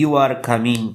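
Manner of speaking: "You are coming" said as a plain statement with falling pitch at the end; statement intonation. Shown as a demonstration. Teacher showing students a plain statement tune. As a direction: state it flatly, letting "coming" fall. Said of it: "सीधी सादी गुफ्तगू या कोई बयान".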